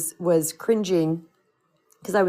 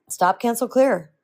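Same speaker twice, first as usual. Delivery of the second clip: firm command; 3 semitones higher than usual. Retold or imitated. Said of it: "my friend Andy Dooley".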